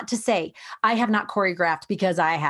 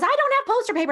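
imitating whiny kid; 13 semitones higher, much faster than usual. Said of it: "there's always".

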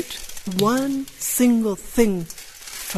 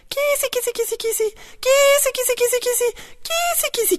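frog call; faster than usual. Pretend. Calling a frog on the hill.

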